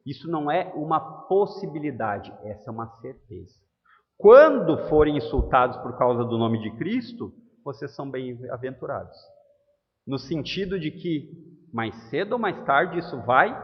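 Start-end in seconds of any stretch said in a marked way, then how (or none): 4.2-9.1 emphatic declaration. Acted. Preacher declaring the certainty.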